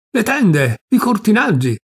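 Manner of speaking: high, loud alarmed cry; shrill cry. A narrator's reading. Aunt shrieking at her niece, high and loud. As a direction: cry out to save the curtains. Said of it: "strillava donna Rosolina".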